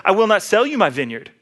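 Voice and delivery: put-on tattle it like a sulky kid; lightly whiny, imitated refusal reported to the wife; mock whining. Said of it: "he whines and he complains".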